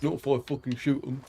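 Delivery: attempted southern accent. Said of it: "I can't do a southern accent".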